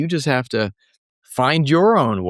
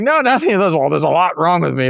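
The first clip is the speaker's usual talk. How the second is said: mock defensive reply; 4 semitones higher, 4 dB louder than usual. Acting out flustered reply to teasing.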